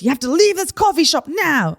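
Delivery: high, forceful mock command; stern order, retold. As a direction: imitate a worker ordering someone out. Worker orders aggressor to leave.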